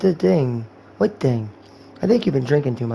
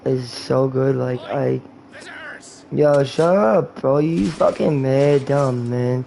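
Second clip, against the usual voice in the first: stoned guy. Pretend. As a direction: act high, dragging words and breaking into laughs. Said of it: "That's how you act when you're high".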